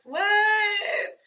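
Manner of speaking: high shouted "What?" of disbelief; incredulous shout. Real, not acted. Reacting to actress playing actress.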